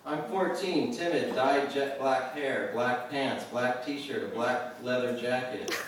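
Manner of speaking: reading through laughter, slow; giggling as he reads; laughing. Real, not acted.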